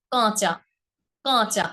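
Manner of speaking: "কাঁচা" with the first vowel sent through the nose; nasalised vowel. Shown as a demonstration. Teacher demonstrating chandrabindu to students, nasalised. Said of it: "একটু নাসিকা প্রভাবিত করে".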